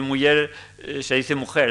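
muller with y sound, mujer with harsh j; ll versus j. Shown as a demonstration. Lecturer contrasts muller and mujer, careful pronunciation. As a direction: set muller against mujer. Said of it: "en vez de decir".

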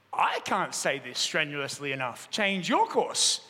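lightly voiced steady keeper, echoing the order back slowly; calm reply. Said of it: "The voice came back".

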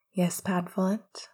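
gentle loving reply; sweetly. Acted. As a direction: answer with fond tenderness. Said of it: "Remus answered sweetly".

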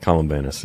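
Columbanus with a short 'a' as in 'ban'. Shown as a demonstration. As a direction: repeat Columbanus as 'col-um-BAN-us'. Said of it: "it's usually pronounced Columbanus".

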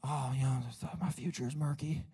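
lightly mocked self-pity; mock complaining. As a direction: whine about your own troubles. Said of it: "talking to him about my problems".

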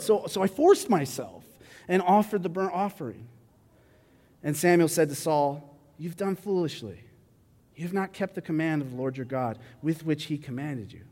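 measured reading of a Bible passage; scripture reading. Acted. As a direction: read the passage aloud to the congregation. Reads scripture passage aloud.

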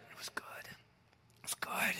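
drops to a slow whisper. Acted. Preacher whispering God's verdict to the congregation, slow. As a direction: breathe the words out. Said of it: "repeated in whisper".

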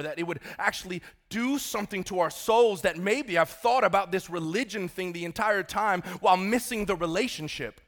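earnest congregational prayer with weighty pauses; praying from the pulpit in measured phrases; heartfelt prayer. Real, not acted. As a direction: pray aloud to the Father, building in intensity midway.

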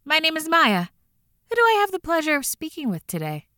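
bright scripted call-centre greeting, a little rushed; chirpy over clear scripted. Acted. Hotline operator's scripted greeting.

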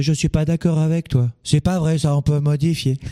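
quoted contradiction, pitched a bit up; imitated objectors. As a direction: lightly mimic people who disagree. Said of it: "beaucoup de gens qui vont me dire".

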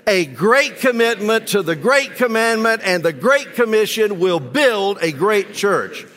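anemic group recital. Real, not acted. Congregation reciting the church motto, a bit half-hearted. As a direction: say the motto without much conviction. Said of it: "That's kind of anemic".

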